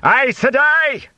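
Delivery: high shouted warning; shouting alarm. Acted. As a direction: raise the alarm at a witch. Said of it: "Bornhold shouted".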